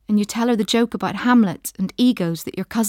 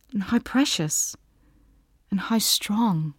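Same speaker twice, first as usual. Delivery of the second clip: whispered; 4 dB quieter than usual. A narrator's reading. Narrator hushes on emotional line.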